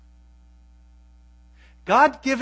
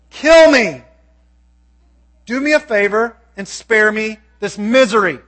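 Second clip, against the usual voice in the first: an exhausted leader begging God for relief, voice raised; Moses pleading; 5 dB louder than usual. Acted. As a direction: cry out to God in desperation. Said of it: "Moses said to the Lord".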